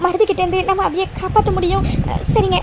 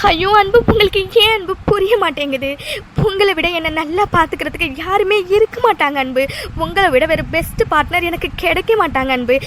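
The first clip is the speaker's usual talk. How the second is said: crying as you plead; tearful pleading. Acted. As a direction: beg him through tears to understand your love. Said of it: "ஏன் madam இப்படி அழுகுறீங்க".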